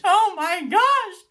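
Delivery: high, loud, stretched-out exclamation; excited squeal. Real, not acted. Reader breaking off from the book, thrilled squeal. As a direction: burst out in real delight. Thrilled outburst while reading aloud.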